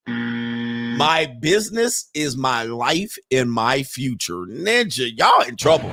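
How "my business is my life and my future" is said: slow, stretched-out mock quote; incredulous quoting. Host echoing the woman's business answer, incredulous. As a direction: draw out her words in disbelief.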